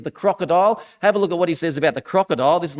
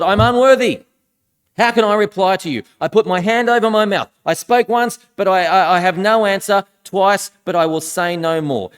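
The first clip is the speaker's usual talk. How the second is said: emphatic Job reply; 5 dB louder than usual. Acted. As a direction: proclaim Job's surrender forcefully. Reads Job's reply to God aloud.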